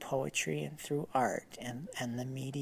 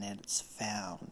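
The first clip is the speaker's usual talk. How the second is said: whisper; 4 semitones lower, 5 dB quieter than usual. Pretend. Punchline aside.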